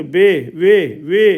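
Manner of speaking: "बे" and "वे" each with a drawn-out ए; teacher drilling the long ए in "बे"; lengthened ए. Shown as a demonstration. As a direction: model "वे" as one long stressed syllable. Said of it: "लंबा होता है".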